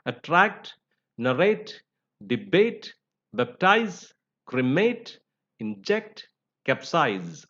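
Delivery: "attract, narrate, debate, baptize, cremate, inject, capsize", each stressed on its second syllable; stress on last syllable. Shown as a demonstration. Teacher listing examples of the rule, stress on last syllable. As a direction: list "attract" to "capsize" with pauses, weight on each final syllable. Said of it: "stressed on the last syllable".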